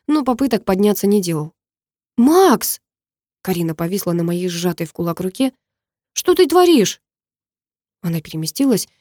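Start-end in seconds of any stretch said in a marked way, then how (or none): 2.2-2.8 put-on high, louder girl's cry; alarmed call. A narrator's reading. Karina hangs on his fist. 6.1-7.0 put-on high, louder girl's voice in shock. A narrator's reading. Karina confronts him, shocked.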